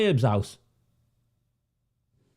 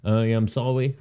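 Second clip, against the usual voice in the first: slightly low, level robot-like apology; a hint of a robot, lightly mimicked; mild robotic; 4 semitones lower than usual. Mocking a police chief reading a scripted apology, mildly robotic. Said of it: "like a robot".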